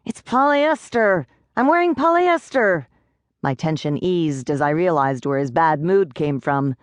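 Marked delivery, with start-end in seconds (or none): 0.0-2.9 high, frantic little pixie; a tiny panicked pixie, much higher. A narrator's reading. Pixie panicking to Rachel about his clothes, high and frantic.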